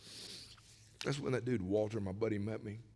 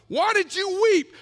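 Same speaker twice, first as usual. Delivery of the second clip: preached question; 12 semitones higher, 6 dB louder than usual. Real, not acted. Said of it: "preaching rhetorical question".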